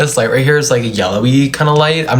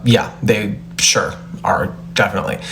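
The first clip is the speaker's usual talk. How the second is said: whispered aside; 5 semitones lower, 4 dB quieter than usual. Real, not acted. Whispered aside about production.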